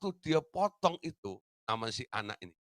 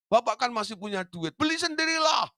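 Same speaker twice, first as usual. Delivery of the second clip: higher, cocky little brat; cheeky refusal; 7 semitones higher, 4 dB louder than usual. Retold or imitated. Eldest child sassily telling father to buy his own. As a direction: toss it off like a spoiled kid.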